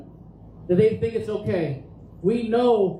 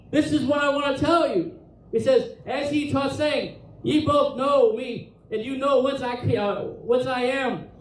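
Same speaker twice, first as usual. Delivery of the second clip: earnest, insistent appeal with a touch of passion; fervent pleading; 3 semitones higher than usual. Acted. Preacher voicing Jesus teaching in the temple, fervently pleading. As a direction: plead it out with mild urgency. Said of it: "begging them and pleading with them".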